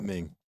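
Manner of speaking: gaming drawn out, emphasised; stress on GAMING. Shown as a demonstration. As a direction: lean on the word gaming. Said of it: "Emphasis on the".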